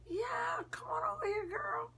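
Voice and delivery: very high-pitched, hammed-up welcome; excited calling over. A narrator's reading. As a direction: call her over in a high voice. Blood calls her over.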